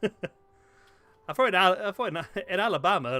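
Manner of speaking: laughing while talking. Real, not acted. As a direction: talk through the laughter. Laughing through words.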